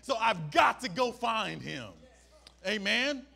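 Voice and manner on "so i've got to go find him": excited leper. Retold or imitated. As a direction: push it out with desperate hope. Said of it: "He said, No".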